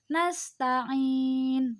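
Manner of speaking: NASTA'IN with the final i held four counts; panjang empat harokat. Shown as a demonstration. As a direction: stretch the end of "nasta'in" moderately long. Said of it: "Atau empat harokat". (akhir NASTA'IN dipanjangkan empat harokat)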